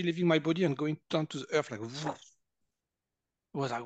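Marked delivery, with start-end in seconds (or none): 1.8-2.1 soft rushing "woof" of air; imitated energy whoosh. Energy leaving his body into the earth, whooshing noise. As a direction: blow out a whoosh like draining energy.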